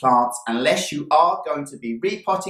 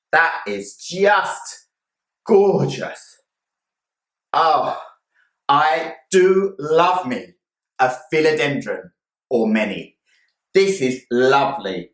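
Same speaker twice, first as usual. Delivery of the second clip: relentless cheer. Real, not acted. Gushing over new plant.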